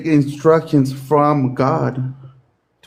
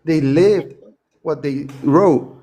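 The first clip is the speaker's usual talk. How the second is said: slurring words. Real, not acted. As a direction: slur the words like you've been drinking. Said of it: "now you're slurring your words".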